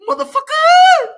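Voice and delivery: very high, loud yelled curse; imitated shouted curse. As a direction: yell it up high like Panic did. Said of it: "Panic was like".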